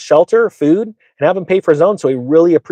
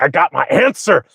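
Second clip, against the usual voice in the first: slightly high, bottled-up eagerness; mock giddy readiness, held at normal volume; eager anticipation; 4 semitones higher than usual. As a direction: act out being ready with the answer. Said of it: "I'm being quiet and I'm ready".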